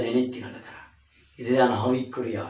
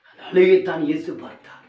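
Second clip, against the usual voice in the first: அழுகையைத்தான் said higher and louder; louder emphatic repeat; 5 semitones higher, 6 dB louder than usual. Shown as a demonstration. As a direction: drive the point home. (அழுத்தமான உரத்த மறுபடி)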